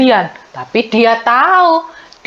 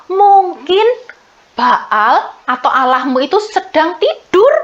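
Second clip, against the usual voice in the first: mocking; 4 semitones higher than usual. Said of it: "Elia mengejek".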